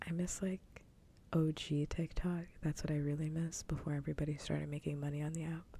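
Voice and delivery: hushed whisper all the way through. Real, not acted. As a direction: keep it a secret-sharing whisper.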